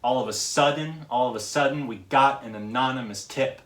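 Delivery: rhythmic stresses on "sudden", "got", "anonymous", "tip"; emphasized syllables. Shown as a demonstration. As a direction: punch "sud", "got", "non" and "tip". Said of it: "those are all the, the syllables".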